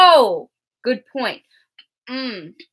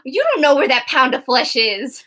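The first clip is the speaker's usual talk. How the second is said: whisper. Real, not acted. Whispered reply.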